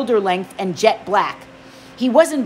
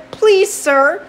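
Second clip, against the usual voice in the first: higher, urgent plea; pleading boy voice; 5 semitones higher than usual. Acted. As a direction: beg with tense politeness. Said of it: "I said".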